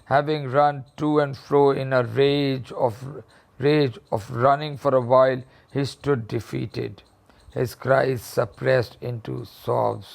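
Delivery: reading the story slowly, word by word. A narrator's reading. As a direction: read it out slowly for the class. Teacher reads the story aloud. (धीमी आवाज़ में कहानी पढ़ना)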